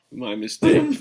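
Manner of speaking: "mistake" jumps high with a rising tune; high rising mock apology. Shown as a demonstration. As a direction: squeak "mistake" up high as a question.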